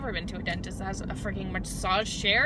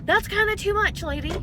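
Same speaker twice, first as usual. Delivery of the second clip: sassy; 11 semitones higher, 5 dB louder than usual. Retold or imitated. Retorting to the nurse.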